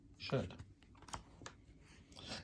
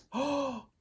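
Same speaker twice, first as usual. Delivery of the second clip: tearful whisper; 13 semitones higher, 7 dB louder, slower than usual. A narrator's reading. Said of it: "she whispered".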